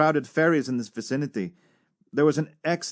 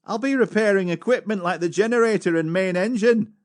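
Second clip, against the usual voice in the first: quoting the cadet; 7 semitones higher, 4 dB louder than usual. Retold or imitated. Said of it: "He said".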